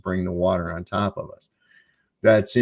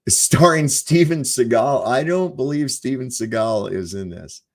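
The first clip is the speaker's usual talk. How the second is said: laughing; 4 semitones higher, 3 dB louder than usual. Real, not acted. Streamer reading the movie's cast to his viewers, laughing. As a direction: read it out, cracking up.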